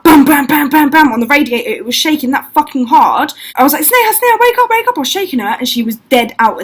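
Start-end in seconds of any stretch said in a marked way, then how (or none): 0.0-1.1 punchy spoken bam bam bam, louder; rhythmic mock banging; imitated bangs. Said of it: "the bed was literally like". 3.8-5.0 high, frantic calling of her name; frantic high call to a sleeping friend; urgent panicked wake-up. Retold or imitated. Urgently waking her friend at night.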